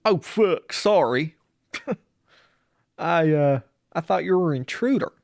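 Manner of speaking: high, hurried apology; flustered homeowner. Retold or imitated. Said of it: "He's like".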